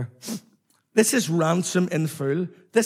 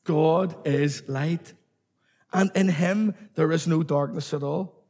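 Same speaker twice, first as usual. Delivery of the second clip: God is light spoken slowly, each word weighted; preacher leads the congregation, slow and deliberate; slow emphatic. Shown as a demonstration. Preacher leads the congregation in call and response, slowly and deliberately. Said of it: "Say that with me".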